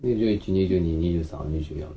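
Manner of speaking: 二十一、二十二 with the full 十; standard counting. Shown as a demonstration. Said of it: "二二とか言わない".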